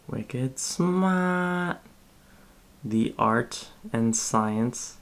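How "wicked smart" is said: put-on playful Boston accent, r dropped in smart. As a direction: toss it off like a Bostonian. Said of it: "every time I talk in a Boston accent".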